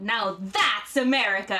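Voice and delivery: put-on drunken proclamation, THAT'S stretched and punched; a slow, emphatic barroom declaration; declaring. Host reads out Cage's bar boast, declaring it. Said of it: "he declared".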